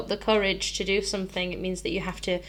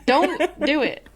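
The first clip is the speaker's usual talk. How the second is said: laughing joke; 6 semitones higher, 9 dB louder, slower than usual. Real, not acted. Joking about the guitar fret.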